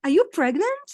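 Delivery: high, loud mock nosy stranger; a nosy stranger asks, in a playful mock high voice. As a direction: toss off a nosy stranger's question. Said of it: "people tell you".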